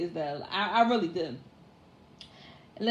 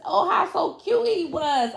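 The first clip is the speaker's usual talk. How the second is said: put-on cooing baby talk; 9 semitones higher, 4 dB louder than usual.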